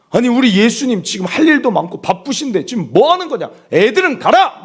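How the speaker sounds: high, mounting rebuke ending loud; scolding. Acted. Disciples to parents bringing children to Jesus, acted scolding. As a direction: shoo them away like an indignant disciple. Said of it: "제자들이 막 꾸짖습니다".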